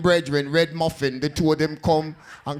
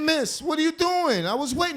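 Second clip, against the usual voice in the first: pleading; 10 semitones higher than usual. Retold or imitated. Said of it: "I said".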